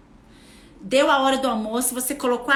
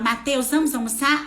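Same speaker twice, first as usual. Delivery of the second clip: calm invitation. Shown as a demonstration. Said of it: "e eu falo".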